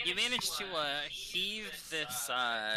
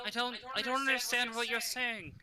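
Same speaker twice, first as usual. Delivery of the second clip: confused voice; 11 semitones higher, 3 dB louder than usual. Acted. GM voicing the confused voice.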